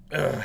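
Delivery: small heave of exertion; dad grunt. Acted. Tailor throwing shirt on the table, dad grunt. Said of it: "you hear him do dad grunt noises".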